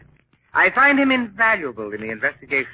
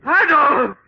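high loud cry of the name; alarmed shout; 7 dB louder than usual. Acted. Villain sees his partner fall, alarmed shout. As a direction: shout in shock.

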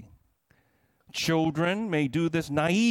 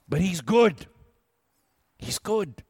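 louder, proud insistence; emphatic declaration; 4 dB louder than usual. A narrator's reading. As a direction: declare it to the whole room. Beaver's declaration in story.

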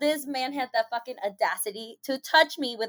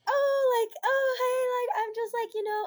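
much higher, stammering flustered voice; mock flustered guy; 13 semitones higher than usual. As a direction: play the caught-out guy stammering. Imitating flustered intruder.

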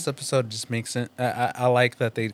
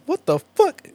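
retold shock; 4 dB louder than usual. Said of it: "He's like".

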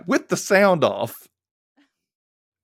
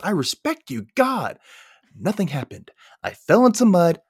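higher-pitched protesting retort; mock exasperated teen; 8 semitones higher than usual. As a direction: act out a daughter fed up with questioning. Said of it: "that's when Angela goes".

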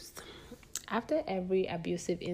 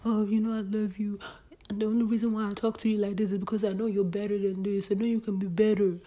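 imitating abusive ex; 3 semitones higher, 7 dB louder than usual. Ex apologizing after a fight, mocking pleading voice.

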